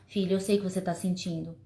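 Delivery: empathetic parent. Shown as a demonstration. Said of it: "demonstrar empatia".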